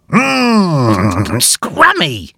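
put-on high, eager young bear voice; a high, excited little hero; Huxley's voice. A narrator's reading. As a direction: voice Huxley bright with delight. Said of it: "he said".

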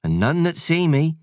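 lightly voiced cheeky country sprite; a hint of a rustic sprite. Sprite explains loneliness.

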